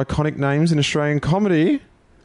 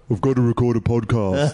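Tag to drop. Retold or imitated. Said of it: "My girlfriend's impersonation of me".

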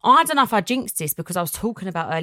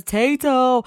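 put-on high little-boy Potato., said firmly; toddler insisting; 5 semitones higher, 5 dB louder, slower than usual. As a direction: insist on it like a small child. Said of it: "He goes".

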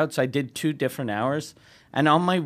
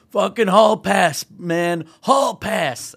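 loud, raised celebratory crowing; higher, louder mock jubilation; elated retold passenger; 3 semitones higher, 5 dB louder, much slower than usual. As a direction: imitate a man thrilled with his night off. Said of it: "he's fucking so happy".

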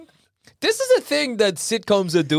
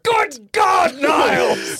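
high stately exclamation, shouted; Frasier impression; 9 semitones higher, 3 dB louder, much slower than usual. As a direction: proclaim it like a pompous psychiatrist. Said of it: "he's so much fun to do".

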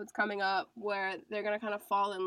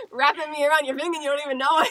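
laughing; 4 semitones higher, 10 dB louder, much faster than usual. Real, not acted. Laughing about attraction.

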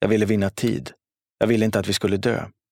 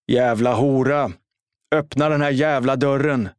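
hackat, långsamt hot med högre röst; rasande skrik; 5 semitones higher than usual. A narrator's reading. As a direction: ilsket lätt högre skrik, inte fullt ut. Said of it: "skrek Jari". (rasande skrik genom dörren mot mamma)

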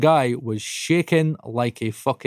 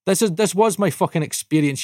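high, fired-up comeback; indignant retort; 6 semitones higher than usual. Retold or imitated. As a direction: throw it back at the boss. Retorts at boss in retelling.

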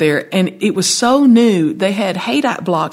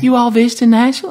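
lightly voiced gracious Southern hostess, higher; 5 semitones higher than usual. Southern hostess greeting a couple outside the club, lightly imitated welcome. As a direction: ask brightly as a Southern hostess would. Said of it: "The Southern hostess that I am".

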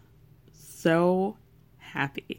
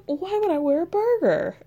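laughing; 12 semitones higher than usual. Retold or imitated. Retelling the mix-up laughing.

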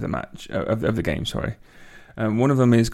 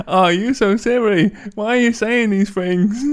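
mock Chinese voice; 10 semitones higher, 4 dB louder than usual. S0 voices Ince replying.

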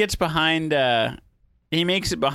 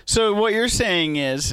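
slow, higher in pitch, deliberate ambassador; Saval; 6 semitones higher, slower than usual. Acted. Ambassador questioning the captain's deal, in role, deliberate. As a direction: spell it out slowly to the captain. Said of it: "I'm Saval right now".

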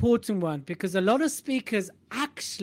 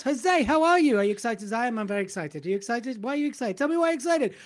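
hyping up; 3 semitones higher than usual. Real, not acted. Hyping co-host up.

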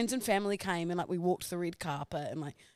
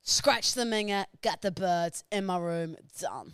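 put-on Geordie accent. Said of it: "Geordie Shore".

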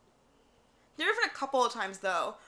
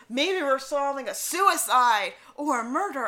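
mock eager theorizing; 3 semitones higher, 6 dB louder, slower than usual. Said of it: "It's like".

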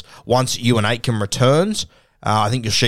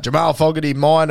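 a mild mock call-out, pitched higher; called out claim; 6 semitones higher than usual. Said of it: "he called out".

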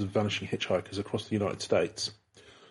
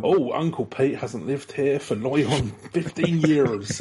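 put-on slow, higher old-timer voice with a laugh; put-on accent; 4 semitones higher, 4 dB louder, much slower than usual. Resident at the door telling the motorist, slow put-on old-timer accent. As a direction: draw it out like a local old-timer. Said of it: "speaking with that accent".

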